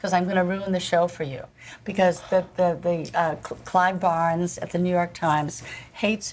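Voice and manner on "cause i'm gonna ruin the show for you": trembling near tears. Retold or imitated. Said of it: "I was trembling and on the verge of tears".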